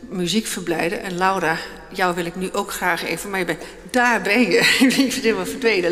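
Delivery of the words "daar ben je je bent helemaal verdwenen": laughing as you spot someone, a bit louder; real laugh breaking into the words; amused surprise. Real, not acted. Host finds the vanished musician, amused and laughing. Host spots Laura she had lost.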